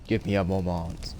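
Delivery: put-on slow, lightly copied French-style accent; imitating Orlesian accent. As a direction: echo her Orlesian accent, slowly. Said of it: "I do fucking like that accent".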